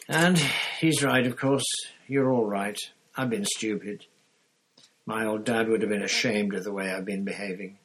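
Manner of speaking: loud, big giant's voice; gruff giant rallying himself; Hagrid. Acted. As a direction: giant pulling himself together to show his friends a picture. Hagrid recovering from tears.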